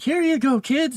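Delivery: high, chirpy mock mom voice; lady in the commercial offering a fizzy drink, high mock voice. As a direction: play the cheery ad mother. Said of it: "It's like".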